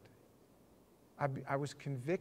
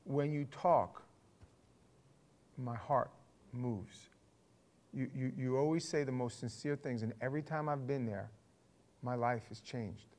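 imitating sincere woman; 4 semitones lower, 5 dB quieter than usual. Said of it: "sincerely she says to me".

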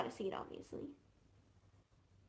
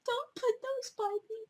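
laugh-crying; 6 semitones higher than usual. Real, not acted. Laughing-crying plea about the items.

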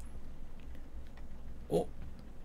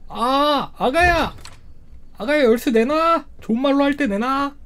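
mock threat; 4 semitones higher than usual. Demanding the key from baby.

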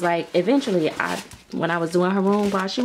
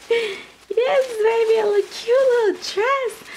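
delighted squeal; slower than usual. Real, not acted. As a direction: coo it high, thrilled. Squealing over baby dress.

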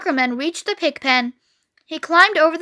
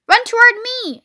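high, loud yell; 9 semitones higher, 5 dB louder than usual. A narrator's reading. Gander yelling directions to fleeing Wilbur, yelled. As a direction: yell it out urgently. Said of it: "yelled the gander".

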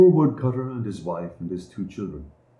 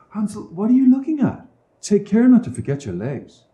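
calling father; 10 semitones higher than usual. A narrator's reading. Father calls to son again.

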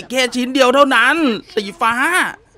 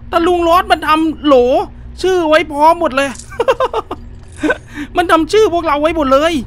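panicked whine; 5 semitones higher than usual. Real, not acted. Player finding jars labelled with their names, half-crying panic. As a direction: wail in mock terror.

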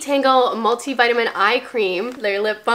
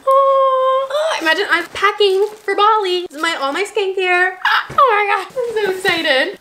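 high, laughing gush; excited laughing; 7 semitones higher than usual. Real, not acted. Laughing excitedly over makeup bag.

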